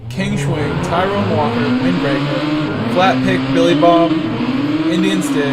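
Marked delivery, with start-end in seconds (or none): 4.1-5.5 drawn out slowly through a yawn. Real, not acted. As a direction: say the name mid-yawn. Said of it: "Sorry for the yawn".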